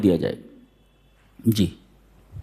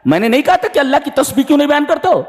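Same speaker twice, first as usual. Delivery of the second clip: much higher, fast, reproachful; reproachful brother; 14 semitones higher, faster than usual. Retold or imitated. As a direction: rush out an I-told-you-so. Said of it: "वो कह रहा है कि". (ऊँची तेज़ आवाज़ में भाई को ताना)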